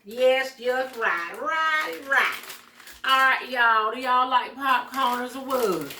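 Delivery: hint of the show-host voice; lightly held host voice. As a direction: keep the host persona going, a touch. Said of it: "'cause she can do that voice just right".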